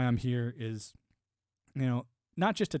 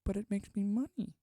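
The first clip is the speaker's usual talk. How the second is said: higher, whiny corporate excuse; mock greedy media exec; 6 semitones higher, 4 dB quieter than usual. Mocking media companies defending their algorithms, higher whiny excuse. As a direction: whine it like a shrugging money-grubber. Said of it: "And they're like".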